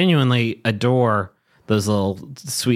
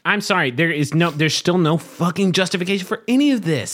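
exasperated; 6 semitones higher than usual. Real, not acted. Co-host rants about contrived feud.

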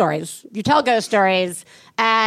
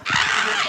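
friends' scream. Retold or imitated. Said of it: "they're like".

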